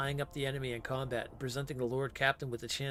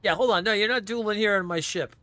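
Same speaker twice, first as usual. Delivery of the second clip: loud protest; 5 semitones higher, 6 dB louder than usual. Real, not acted. Repeats protest.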